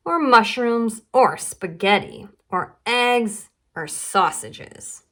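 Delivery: put-on stubborn child's rising protest; stubborn little girl. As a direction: list every food, then plant your feet on never. Lola's list of refusals.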